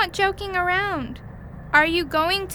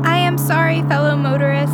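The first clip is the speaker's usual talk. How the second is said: louder, half-shouted apology; calling out; 6 dB louder than usual. Acted. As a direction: announce it over the engine. Apologizing before reckless drive.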